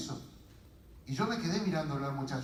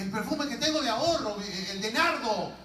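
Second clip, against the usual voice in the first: higher, flustered reply; nervous searching; 5 semitones higher than usual. Acted. Woman answering her family while rummaging, acted nervousness. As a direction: act a woman too busy searching. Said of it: "sigue buscando así nerviosa".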